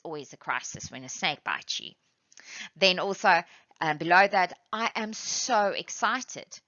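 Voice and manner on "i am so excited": excited. Shown as a demonstration. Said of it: "are very excited".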